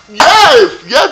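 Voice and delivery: high, loud cheer of yes; excited yes. Retold or imitated. Cheering on the screen, an excited yes. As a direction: cheer it out, thrilled. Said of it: "I was like".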